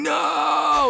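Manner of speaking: strained half-whisper shout, held back; whisper yelling. Shown as a demonstration. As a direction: yell but keep it hushed. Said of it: "whisper yelling".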